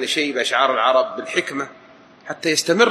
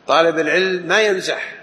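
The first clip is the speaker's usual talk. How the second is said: higher, mock-stern pronouncement; mock overstrict student; 5 semitones higher than usual. Teacher imitating a strict student forbidding jokes, mock stern. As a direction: lay down the rule like a zealot. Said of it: "في غلوط طلاب متشددين".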